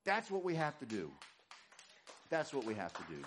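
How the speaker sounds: winded after preaching; a bit out of breath. Real, not acted. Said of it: "Whew, I'm winded".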